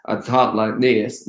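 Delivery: slow American Southern drawl demo; a slow, easy Southern accent. Shown as a demonstration. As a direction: show off a Southern accent, unhurried. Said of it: "a southern accent like this".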